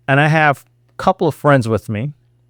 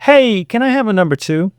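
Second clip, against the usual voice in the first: calm, casual order in a raised pitch; calm request; 6 semitones higher than usual. Shown as a demonstration. Customer calmly ordering at a counter, calm and casual. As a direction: order politely, without any fuss. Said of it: "calmly said".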